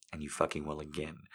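words forced through gritted teeth. Acted. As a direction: talk through clenched teeth. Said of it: "I say through gritted teeth".

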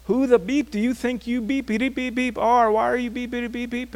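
hammed-up furious yelling of a stranger; retold angry rant, bleeped; mock cursing out. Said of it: "her cursing me out".

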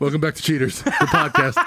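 laughing mock show intro; announcer voice. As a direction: announce it like a host.

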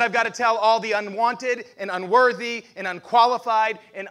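impassioned proclamation. Acted. Preacher voicing Paul's passion.

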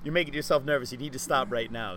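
mildly exasperated talking-to; mock self-scolding. Guest replays inner voice while nervous, mock scolding. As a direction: lightly replay telling yourself off, pressing on.

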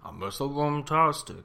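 a weak stab at Shaggy's voice; lightly voiced Shaggy; Shaggy impression. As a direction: try the Shaggy voice half-heartedly. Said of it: "I can't do it anymore".

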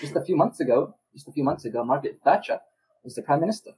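British commentator. Pretend. Improvised British commentator act.

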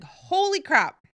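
high, slow, loud "holy crap" of shock; stunned. Retold or imitated. Spotting her mentor on the big screen, amazed.

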